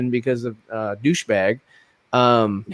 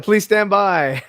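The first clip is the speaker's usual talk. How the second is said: slow broadcast announcer; drawn-out on-air announcement; 4 semitones higher, much slower than usual. Retold or imitated. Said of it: "It's like a telethon".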